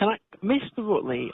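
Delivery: officer interrupting the upset tenant to be heard; firm interruption. Real, not acted. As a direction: firmly claim the floor. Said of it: "let me speak".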